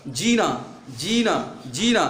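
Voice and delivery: जीना with the जी lightly drawn out; slightly stretched vowel. Shown as a demonstration. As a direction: pull the ई in जीना a little longer. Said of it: "खींचा जाता है, हल्का सा".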